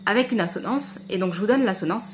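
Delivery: frog in throat, slightly husky; talking with a frog in the throat. Real, not acted. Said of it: "j'ai un truc dans la gorge".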